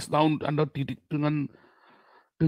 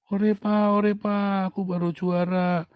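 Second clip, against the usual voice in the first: imitating a child; 5 semitones higher, slower than usual. Child calling dad about win.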